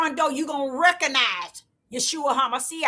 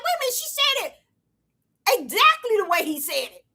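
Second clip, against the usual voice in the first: excited; 9 semitones higher, faster than usual. Retold or imitated. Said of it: "I'm like".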